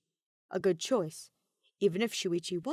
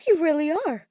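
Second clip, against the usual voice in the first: higher, louder, slow sarcastic taunt; mocking; 9 semitones higher, 9 dB louder, slower than usual. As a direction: sneer at her with amusement. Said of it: "had the nerve to laugh".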